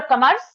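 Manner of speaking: "commerce" with a weak, short first vowel, "kuh-MURS"; first variant pronunciation. Shown as a demonstration. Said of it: "pronounced by Indians in three different ways".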